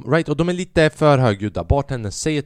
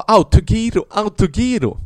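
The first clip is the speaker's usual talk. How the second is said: mock heckle; 8 semitones higher, 5 dB louder than usual. Woman heckling, imitated.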